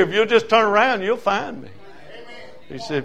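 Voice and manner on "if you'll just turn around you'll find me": loud voicing of God.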